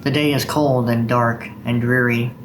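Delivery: unhurried recital voice with steady cadence; poem recitation. Acted. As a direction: read it like a poem to an audience. Reads Longfellow aloud.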